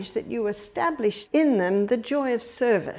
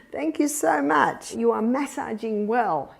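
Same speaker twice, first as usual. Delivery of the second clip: laughing thanks. Shown as a demonstration. Grandparent thanking a grandson for a foot massage, with a laugh. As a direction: laugh warmly as you thank them. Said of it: "we'd say".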